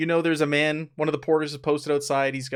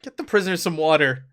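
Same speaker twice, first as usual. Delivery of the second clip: called out to someone across the camp; louder order shouted across the camp; calling over; 2 semitones higher, 4 dB louder than usual. Acted. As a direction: call out an order. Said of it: "He's like, calls over".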